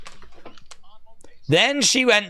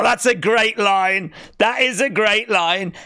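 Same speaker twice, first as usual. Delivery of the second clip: excited praise; 2 semitones higher than usual. Real, not acted. Excited about the line.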